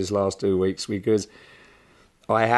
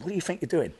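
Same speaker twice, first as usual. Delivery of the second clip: stern dad; 8 semitones higher, 5 dB quieter, faster than usual. Retold or imitated. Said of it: "I said".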